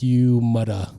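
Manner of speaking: put-on a weak, lightly done Jamaican accent on an angry quote; mock Jamaican accent, barely put on; bad Jamaican accent. Podcaster mimics angry Jamaican bobsledder in a bad Jamaican accent. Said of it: "Horrible accent".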